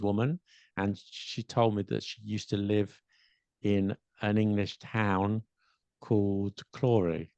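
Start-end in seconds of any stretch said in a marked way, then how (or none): 6.0-7.3 Clory said with a long o and a tapped r; Japanese-accented Crawley. Retold or imitated. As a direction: say Clory as kʰlɔri, open o, flapped r. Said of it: "she said it in such a way".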